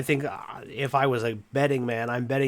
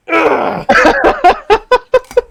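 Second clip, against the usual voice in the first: high, loud fake sob; mock despairing wail; 12 dB louder than usual. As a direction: wail in hammed-up misery. Opponent's mock misery wail.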